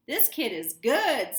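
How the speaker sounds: slow, loud, smiling approval; smile in voice. A narrator's reading. DJ impressed by the kid caller, smiling. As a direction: grin through it. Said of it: "with a smile on his voice".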